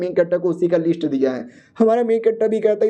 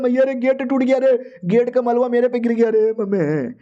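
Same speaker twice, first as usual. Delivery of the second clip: lightly hammed-up, higher-pitched dismay; mock panicked wail; 4 semitones higher than usual. Guards lamenting the broken gate, mock panicked wail. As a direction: wail to big brother and mummy in pretend panic.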